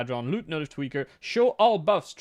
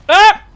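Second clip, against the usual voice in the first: loud high yelp; startled shout out loud; sudden yelp; 19 dB louder than usual. Real, not acted. Sudden cry in game.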